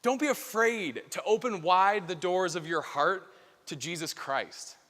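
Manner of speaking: slow and earnest invitation; slow, solemn exhortation. Real, not acted. Preacher quoting the Pope to the group, slow and solemn. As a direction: say it like a sacred quote.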